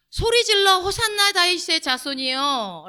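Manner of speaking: high, slow, drawn-out proclamation; proclaimed scripture cry. Shown as a demonstration. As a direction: call out the verse, stretching each phrase. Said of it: "여기서 이 소리질러라는 게".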